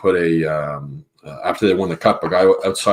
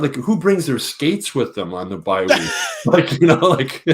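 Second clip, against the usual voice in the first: laughing retold quote; 5 semitones higher than usual. Letang laughing at Crosby story.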